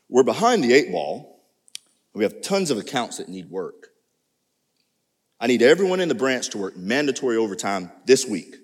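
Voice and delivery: brisk boss handing down bad news; a lightly voiced stern boss; supervisor voice. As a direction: play the demanding supervisor. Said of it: "I'm gonna use my best supervisor voice".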